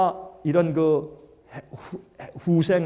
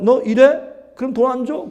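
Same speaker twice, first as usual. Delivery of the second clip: threatening creditor; 8 semitones higher, 7 dB louder than usual. Retold or imitated. IMF grabbing indebted nations.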